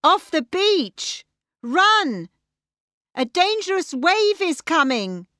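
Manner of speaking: high, urgent calling out; shouted warning. Acted. People on the beach warn each other, high urgent shouts. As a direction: shout to clear everyone away. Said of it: "they started to shout".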